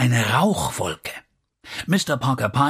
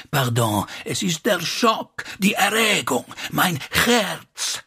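high-pitched, overwrought gasps of phrases; flustered and overcome, in short bursts; agitated shock; 5 semitones higher than usual. A narrator's reading. Slavic lady excuses herself for the shock, agitated.

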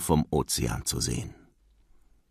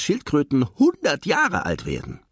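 put-on high-pitched child's chatter; eager little boy; 8 semitones higher than usual. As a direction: tell Dad in a high, keen voice. Child Nemo chattering to father. (hohe, eifrige Kinderstimme)

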